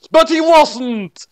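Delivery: spring the twist like a cheesy horror narrator; mock-dramatic reveal, hushed then loud. A narrator's reading. Narrator springing the drugged-candy twist, hushed then booming.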